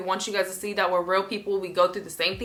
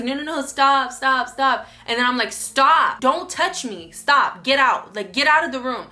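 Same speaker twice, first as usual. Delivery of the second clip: louder, insistent stops, building to firm orders; escalating protest; 4 semitones higher, 5 dB louder than usual. Retold or imitated. Telling partner to stop tickling her, increasingly forceful protest. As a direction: re-enact pushing someone away, raised voice, punched words.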